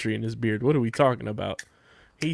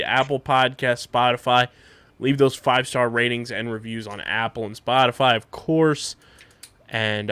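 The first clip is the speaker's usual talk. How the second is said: podcast sign-off. Real, not acted. Reads the show's closing plugs.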